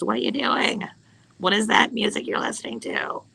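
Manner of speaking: lightly voiced impression of a man at home; Eric. Imitating Eric coming downstairs to question the music, lightly put-on voice. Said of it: "That was a really good impression of Eric".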